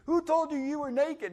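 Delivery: a lightly voiced stern God; God's stern question. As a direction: challenge him: who told you.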